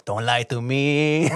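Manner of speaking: slow, laughing mock threat; a laughing imitation of the passenger's accusation; mock stern, laughing. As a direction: try to sound tough but crack up. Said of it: "He goes".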